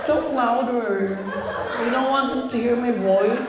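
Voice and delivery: slow, soft sulky whine; whiny girlfriend. Retold or imitated. Girlfriend on the phone sulking at her boyfriend, slow and whiny. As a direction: drag the words out in a pout. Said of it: "Arte mo".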